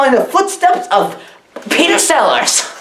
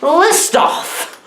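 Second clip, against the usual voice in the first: rising list off; 6 semitones higher than usual. Shown as a demonstration.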